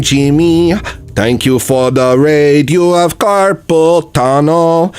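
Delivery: slow put-on character voice. Slow put-on voice thanking raider.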